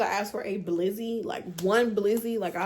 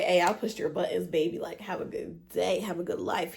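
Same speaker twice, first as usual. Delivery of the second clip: sweetly dismissive. Retold or imitated. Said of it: "all I did was say".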